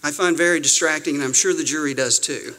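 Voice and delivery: put-on light Southern judge accent. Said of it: "I'll try to do a Southern accent".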